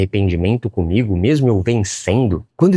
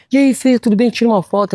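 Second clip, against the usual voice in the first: much higher, eager fan voice; excited fan; 3 dB louder than usual. Retold or imitated. Fan stopping him on the street, high eager voice. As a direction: play a star-struck fan on the street. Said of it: "me reconheciam na rua e falava".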